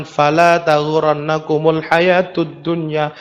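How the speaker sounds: slow, low Quranic recitation; recited verse. Acted. Preacher quoting the Quran to the congregation, slow solemn recitation. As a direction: intone the verse reverently.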